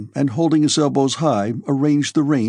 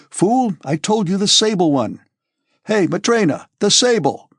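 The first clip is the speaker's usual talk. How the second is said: high-pitched ringing call; shouting; 7 semitones higher, 3 dB louder than usual. A narrator's reading. Dólokhov to his servants, shouting for the sable. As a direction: shout an order through the rooms. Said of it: "he shouted, so that his voice rang far".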